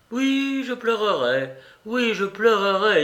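high, fervent insistence; impassioned, high-pitched declaration; emotional avowal. A narrator's reading. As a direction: affirm it with rising feeling, then repeat. Grushenka declares she will cry.

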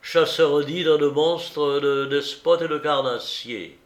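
emphatic, self-important storyteller; boastful hunter. Acted. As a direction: brag grandly about big-game exploits. Tartarin boasts of his hunts. (chasseur vantard)

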